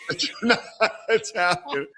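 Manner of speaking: breaking up with laughter mid-quote; laughing. Real, not acted. Storyteller reaching his punchline, laughing through the words. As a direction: try to finish the line through real laughter. Teller cracks up ending story.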